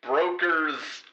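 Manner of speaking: low, deep-set narrator aside; low scene narrator. Acted. Narrator announcing the broker scene, low voice.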